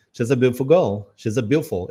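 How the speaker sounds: British "beautiful" shortened to "be'ful"; British clipped "beautiful girl"; imitated British accent. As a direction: swallow the T and I, British style. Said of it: "essa comida no T e no I".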